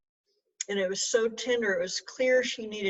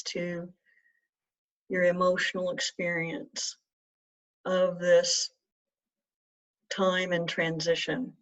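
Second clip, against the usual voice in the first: guided meditation; 2 semitones lower than usual. Real, not acted. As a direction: gently lead them inward, leaving space between phrases. Leads a guided inward exercise.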